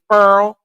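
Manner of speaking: "furl" said slowly with an r, for foil; grandma's furl for foil. Retold or imitated. Imitating her grandma's thick-accented way of saying foil. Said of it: "She say furl".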